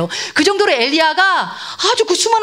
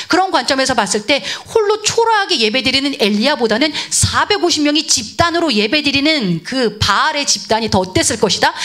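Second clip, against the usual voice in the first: ordinary delivery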